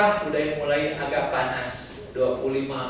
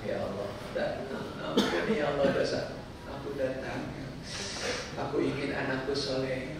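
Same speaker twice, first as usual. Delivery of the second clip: humble prayer; 6 dB quieter than usual. Acted. Voices a pilgrim's humble prayer.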